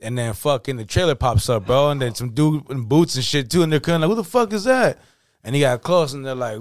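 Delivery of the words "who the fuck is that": high-pitched mock disbelief; imitated bewilderment. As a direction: act out a band puzzled by a stranger. Band retold seeing stranger arrive.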